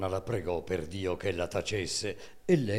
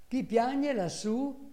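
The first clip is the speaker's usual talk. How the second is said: high, slow calling up the tower; shouted call; slower than usual. Acted. Farmhand calls up the tower, a high drawn-out shout. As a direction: call out up to the weeping voice. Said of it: "gridò".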